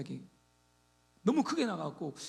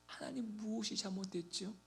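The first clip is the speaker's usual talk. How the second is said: humble prayer; 2 semitones higher, 8 dB quieter than usual. Retold or imitated.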